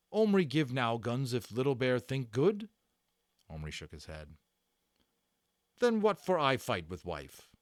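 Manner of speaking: a stern warrior demanding the guns back; broken-English warrior voice, forceful; Little Bear. Acted. Little Bear grumbling about wife.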